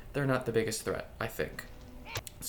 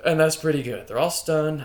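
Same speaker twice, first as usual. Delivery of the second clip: much louder, proud and pumped; 3 semitones higher, 8 dB louder than usual. Real, not acted. Gamer celebrating stunning the whole group, loud. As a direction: celebrate the multi-hit. Big hit lands on four.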